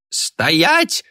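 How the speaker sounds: sharp high yell to stop her. Acted. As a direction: shout it as a command to freeze. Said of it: "завопила Мурена".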